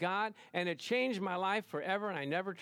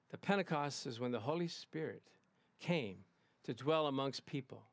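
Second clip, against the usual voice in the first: measured emphatic preacher; 4 semitones lower, 3 dB quieter than usual. Retold or imitated. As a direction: imitate a solemn, emphatic pastor friend. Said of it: "he's very emphatic".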